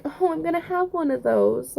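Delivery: high, gushing coo; a mom-to-be coos at little girls she sees; gushing inner thought. Retold or imitated. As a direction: coo it like you just saw a little girl. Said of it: "and I'm just like".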